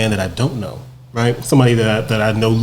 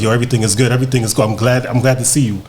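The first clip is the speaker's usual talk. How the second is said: easy upbeat greeting; faster than usual. Retold or imitated. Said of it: "firing on all cylinders".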